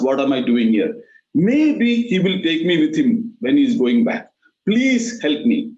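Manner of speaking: mild, slowed pleading of a frightened bird; lightly voiced little bird begging for help; scared bird. Frightened bird pleads to be hidden from Yamaraj, mildly scared. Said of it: "The bird immediately gets scared".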